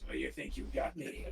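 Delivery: scary villain voice. Acted. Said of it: "You gotta go in a scary voice".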